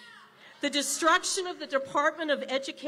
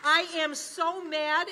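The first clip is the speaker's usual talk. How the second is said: mad; slower than usual. Real, not acted. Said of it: "That is how mad I am".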